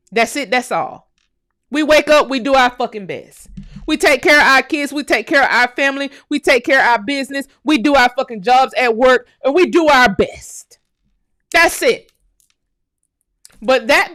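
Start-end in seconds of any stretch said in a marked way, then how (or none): 1.7-10.8 rising passionate insistence. Real, not acted. Building passionate defence of community. 11.5-12.1 high, loud final point; loud, fired-up "That's it"; emphatic loud insistence. Real, not acted. Emphatic closing of list.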